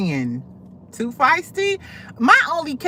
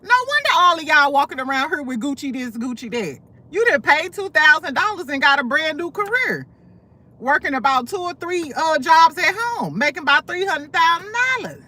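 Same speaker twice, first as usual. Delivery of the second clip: amazed retort; 6 semitones higher than usual. Retold or imitated. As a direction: marvel at them, half mocking. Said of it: "I said".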